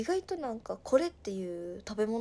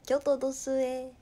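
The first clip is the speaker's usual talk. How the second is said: mock Kyoto dialect; 3 semitones higher, 5 dB louder than usual. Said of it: "京都です。".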